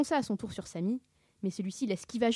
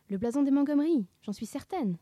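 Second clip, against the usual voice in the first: excited realisation; 6 semitones higher, 4 dB louder than usual. A narrator's reading. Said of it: "songea-t-elle".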